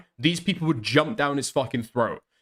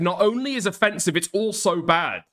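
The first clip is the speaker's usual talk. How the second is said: higher, "only" and "also" stressed; retold condemnation; 4 semitones higher than usual. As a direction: quote the line with mild emphasis. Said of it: "and said".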